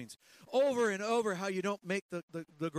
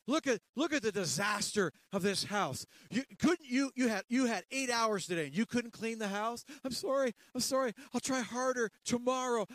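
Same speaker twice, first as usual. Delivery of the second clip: berating husband; 4 semitones higher than usual. Acted. Preacher voicing husband berating his wife, mock nagging. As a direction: scold her like a nagging husband.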